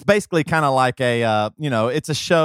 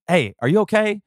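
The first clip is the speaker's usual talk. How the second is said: brisk parental scolding, lightly re-enacted; not gentle; 4 semitones higher than usual. Parent telling crying son to calm down, not gentle. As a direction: retell it as a firm, impatient parent. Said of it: "I wasn't gentle or kind".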